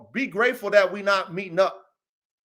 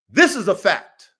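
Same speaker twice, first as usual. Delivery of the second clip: "This is a fact" said slowly with weight; slow down and stress every word of "This is a fact"; emphatic; 4 dB louder than usual. Retold or imitated. Driving home his reply to the O G, emphatic. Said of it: "had to put the emphasis on it".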